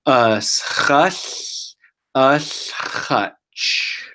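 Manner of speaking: "Us hush, us hutch" said slowly in one flow; slow and together. Shown as a demonstration. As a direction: join "Us hush, us hutch" smoothly, nice and slow. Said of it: "say this word all together and slow".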